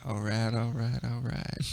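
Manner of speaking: McConaughey drawl. Pretend. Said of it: "Matthew McConaughey impersonation".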